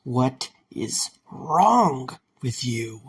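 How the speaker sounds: slow, drawn-out strained protest; strained struggle. Acted. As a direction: force the words out against the wires. Mike struggles in the tightening wires.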